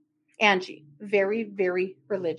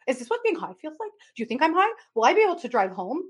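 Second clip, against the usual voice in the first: giggly questions; 6 semitones higher, faster than usual. Retold or imitated. Giggly cousin quoted asking.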